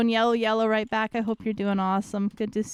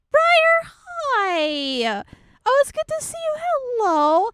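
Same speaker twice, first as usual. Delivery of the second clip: excited greeting; 4 dB louder, slower than usual. Real, not acted.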